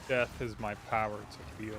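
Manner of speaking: put-on slow, raspy old hag voice; witch voice. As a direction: croak it out like a witch. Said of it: "I love the witch voice line still".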